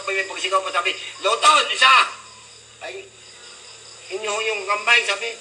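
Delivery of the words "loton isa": loud call of a bus stop. Retold or imitated. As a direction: shout the stop name down the bus. Conductor calling out stop. (malakas na sigaw ng konduktor)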